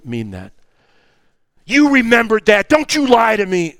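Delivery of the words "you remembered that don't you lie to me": loud accusing mom voice; a parent snapping at a fibbing kid; stern parent scolding. Retold or imitated. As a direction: scold the child firmly. Parent scolding child in example.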